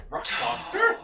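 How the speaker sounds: very high, loud put-on voice; mock squawk. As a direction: shoot way up in pitch, incredulous. Mimics song title in disbelief.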